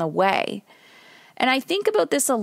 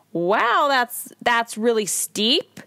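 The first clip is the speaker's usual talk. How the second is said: projecting shopper; 3 semitones higher, much slower than usual. Acted. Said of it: "And I'm projecting".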